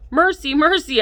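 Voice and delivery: laughing plea. Acted. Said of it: "trying to stop laughing".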